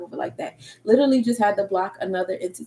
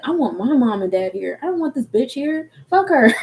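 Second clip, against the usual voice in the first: mock outburst; 3 semitones higher than usual.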